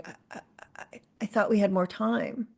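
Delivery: breath-only stammer, then a hushed, sad line; a caregiver stunned, the words falling out softly; stunned sadness. Retold or imitated. Grieving caregiver to the doctor after a death, hushed stammer. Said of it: "that is sadness right there".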